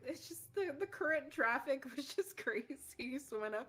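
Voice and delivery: gushing apology. Acted. Mermaid excusing her lateness to Jerush, gushing apology. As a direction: apologise high and loud. Woman apologises for being late.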